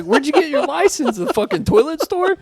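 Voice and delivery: high, loud mock driver rant; road rage yelling. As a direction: bellow at the other car. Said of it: "And you're just like".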